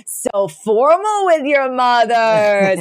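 drawn-out doting mock-scold; hammed-up fond Jewish mothers; mock doting parents. Parents voiced in recap.

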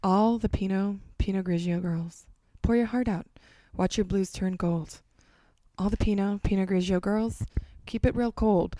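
reading lyrics with dramatic pauses; interpretive read. Pretend. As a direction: read each line like a poem. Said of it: "interpretive read".

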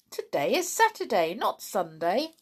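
lightly voiced amused postman; a hint of a jolly postman teasing. Postman teasing the pixies about their clothes, lightly amused.

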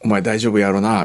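lightly acted Kansai dialect. Son checking his bride's speech before meeting father, in Kansai dialect. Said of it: "関西弁大丈夫か？".

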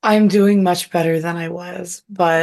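hoarse husky voice from illness; rough, husky sick voice. Real, not acted. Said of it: "You have a sexy voice right now".

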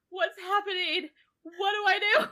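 high, flustered, hammed-up alarm; mock panic. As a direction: squeak it out like a man out of his depth. Confused man after love confession.

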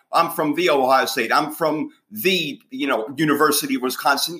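lightly imitating a player introducing himself, the slowed; a hint of a broadcast player intro; mock TV intro, the leaned on. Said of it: "they all do that when they're watching".

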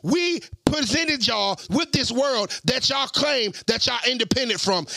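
preacher voice. Acted. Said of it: "I'm talking into my preacher voice".

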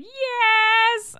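loud, high, bursting yelp of yes; eager yes. Retold or imitated. Accepting the podcast invite, a loud excited yelp. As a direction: blurt it out like a thrilled kid. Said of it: "In that voice".

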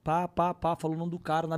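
usual speaking voice

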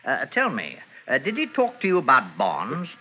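put-on English police accent, polite and proper; a crook faking an English accent to pass as a police sergeant; fake English accent. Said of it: "What became of your English accent?".

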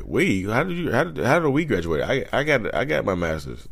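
high, indignant disbelief; indignant graduate. Retold or imitated. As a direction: push back in a high, indignant voice. Acted quarrel, graduate replies.

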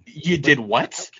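slow, drawn-out disbelief; stretched-out mock shock; mock alarm. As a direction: play stunned by what you just heard. Acts alarm on hearing medical term.

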